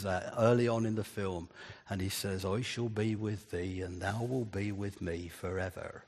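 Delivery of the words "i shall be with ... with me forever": a light hint of a rustic Dorset accent, softer; quoting the farmer Gabriel in a soft, lightly put-on Dorset accent; Dorset country accent. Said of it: "Sorry about the accent".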